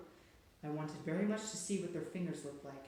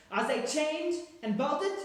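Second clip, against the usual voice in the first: slow, high, loud witch voice drawing out the words; a menacing witch checking the doors; commanding witch; 11 semitones higher, 10 dB louder, slower than usual. A narrator's reading. Grand High Witch demands.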